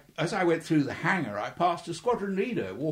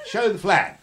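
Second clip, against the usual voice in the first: louder, higher order with a laugh in it; amused order; 5 semitones higher, 7 dB louder than usual. Retold or imitated. Officer telling young pilot to wear uniform, laughing mock order. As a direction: give the order while chuckling.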